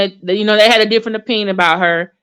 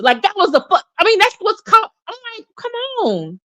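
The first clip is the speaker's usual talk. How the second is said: exasperated disbelief; 6 semitones higher than usual. Retold or imitated. To the panelist, high incredulous retort. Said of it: "I was just like".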